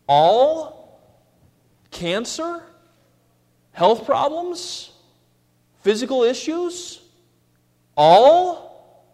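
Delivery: high, incredulous questions; mock disbelief. Shown as a demonstration. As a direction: ham up the disbelief, the last All loudest. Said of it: "W-, all? Is that what your Bible says?".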